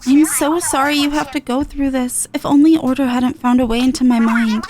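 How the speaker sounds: a guilty friend checking in gently; Marina, sorry. Acted.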